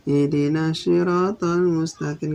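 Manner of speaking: ihdinas siratal read with a single s; wrong reading. Shown as a demonstration. Teacher showing the wrong reading without the doubled s. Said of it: "gak ada tasdidnya".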